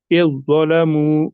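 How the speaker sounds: slow "इज़्ज़लमू", doubled heavy consonant; careful recited "इज़्ज़लमू", dhal silent; merged pronunciation. Shown as a demonstration. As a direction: stretch "इज़्ज़लमू" as "iz-zalamu". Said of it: "सीधे हम इसको इसके साथ मिलाकर पढ़ेंगे".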